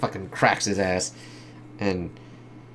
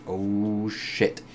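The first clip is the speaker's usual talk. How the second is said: soft breathy oh, shit; hushed mock dread; mock whispered oh shit; 6 dB quieter than usual. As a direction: drop to a whisper in mock panic. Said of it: "It's like".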